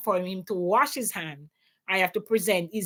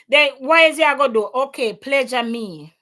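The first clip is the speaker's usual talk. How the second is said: defiant retort; 3 semitones higher, 6 dB louder than usual. Retold or imitated. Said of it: "So me say to him".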